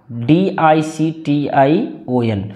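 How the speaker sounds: slow letter-by-letter spelling. Shown as a demonstration. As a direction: spell it out slowly, one letter at a time. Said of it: "डिक्शन". (अक्षर-अक्षर धीरे बोलना)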